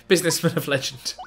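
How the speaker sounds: chuckling through the words; amused, half laughing it out; giggly reading. Real, not acted.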